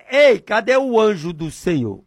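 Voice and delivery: a light call to the angel; prayer call. Shown as a demonstration. Preacher demonstrating his prayer to radio listeners, lightly. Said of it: "Eu digo desse jeito".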